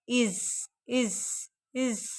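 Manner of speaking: soft repeated इज; iz sound. Shown as a demonstration. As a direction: murmur इज three times. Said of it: "इसका sound आ रहा है". (नरम इज दोहराना)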